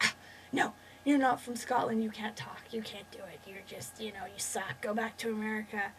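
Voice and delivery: imitating a sulky accent critic; dismissive objection. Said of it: "don't be like".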